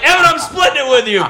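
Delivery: high, excited shout; retold yell. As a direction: re-enact hollering to a hunting buddy. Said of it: "I yelled at him".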